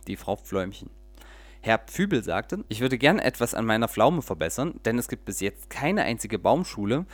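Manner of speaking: lively storyteller reading aloud; audiobook-style story narration. A narrator's reading. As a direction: read it like a bedtime tale with little voices. Reads a children's story aloud.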